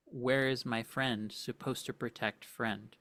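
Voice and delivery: broken creature speech. Acted. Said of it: "as it says that".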